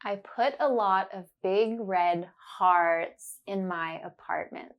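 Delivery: deliberate, each ah sound clear; slow and careful. Shown as a demonstration. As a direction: spell it out slowly for the learner. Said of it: "say it slowly and focus on the sound".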